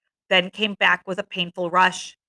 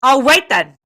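loud, higher-pitched threat; menacing; 5 semitones higher, 7 dB louder than usual. A narrator's reading. Jack glowering at Ralph, menacing. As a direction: make it a challenge full of meaning. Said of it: "in tones of deep meaning and menace".

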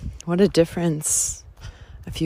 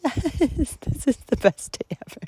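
much higher, laughing cheer; joyful agreement; 8 semitones higher than usual. Retold or imitated. Answering the girl's words, high joyful laugh. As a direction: cheer back with delight. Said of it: "I was like".

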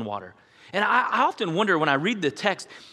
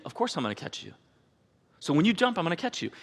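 put-on softer, gentle promise to a child; calm a nervous little one; reassuring dad; 2 semitones higher, 4 dB quieter than usual. Father soothing his scared child at the pool, softly reassuring.

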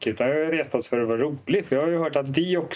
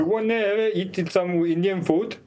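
mock Indian accent in English, slow and a bit higher; imitating an Indian waiter with a put-on Indian accent; slow, exaggerated Indian accent offering food; 5 semitones higher, slower than usual. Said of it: "kan du inte härma en, en indier".

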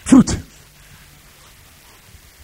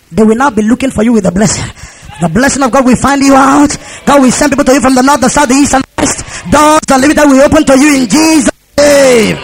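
forceful blessing driven to a shouted close; insistent prophetic declaration; preached blessing; 4 semitones higher than usual. Real, not acted. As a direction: declare it over the congregation, building.

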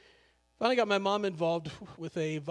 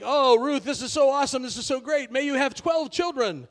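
much higher and louder, over-the-top gushing; gushing townsfolk; 7 semitones higher, 8 dB louder than usual. Retold or imitated. Preacher playing the city crowd cheering Ruth, gushing high and loud. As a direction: squeal with mock delight at Ruth's luck. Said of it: "it's like".

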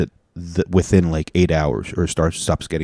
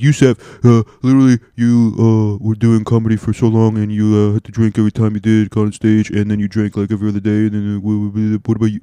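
mock accusing fan; heckling viewer; 2 semitones higher than usual. Viewer calling out his drinking, mildly mock accusing. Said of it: "you can be like".

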